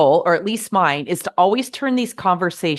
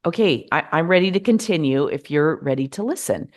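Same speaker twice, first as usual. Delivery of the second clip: calm. Shown as a demonstration. To someone who interrupted, calmly inviting them back. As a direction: calmly offer to go on, no edge. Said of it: "but just say calmly".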